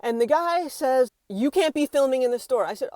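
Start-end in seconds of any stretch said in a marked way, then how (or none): 1.3-2.6 mildly stern mimicked order, raised and louder; aggressive. Store worker orders a shopper to stop filming, mildly aggressive. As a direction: imitate a man laying down the rule. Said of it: "speaking to me really aggressively".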